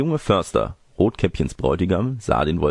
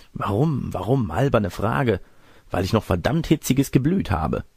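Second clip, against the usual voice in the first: higher, put-on cross granny voice; irritable fake grandmother; 4 semitones higher than usual. Disguised wolf dismisses the girl's silly question, higher testy granny voice. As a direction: brush the child off as a peevish granny.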